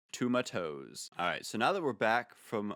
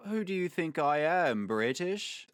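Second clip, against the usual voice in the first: mock offense; 6 semitones higher, 3 dB louder than usual. Mock indignation at shop.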